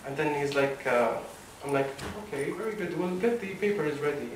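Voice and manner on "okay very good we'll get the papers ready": softer, higher, feigned nonchalance; casual businesslike act, kept quiet; pretending to be cool. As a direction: play it cool, hiding the excitement. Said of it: "trying to pretend that I'm so cool".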